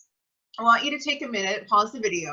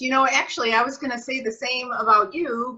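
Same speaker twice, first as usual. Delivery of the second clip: delighted thanks; 4 semitones higher than usual. Shown as a demonstration. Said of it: "we're gonna demonstrate that for you".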